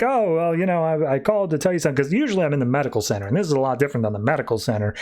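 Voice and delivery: mildly dithering, rambling robot voice; scatterminded. Acted. Doc calls to report but forgets why, scatterminded. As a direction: ramble along, losing the thread. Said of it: "Doc's very scatterminded".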